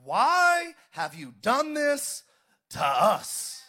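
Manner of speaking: anguished mother's plea, slow; mother scolding Jesus. Acted. Mother to her lost son, slow anguished plea. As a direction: plead like a worried mother. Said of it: "And his mother said".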